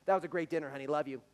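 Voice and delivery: loud, offhand afterthought; husband after dinner, casual and offhand; tacked-on love you. Retold or imitated. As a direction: tack it on without thinking. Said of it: "we just tack 'em on".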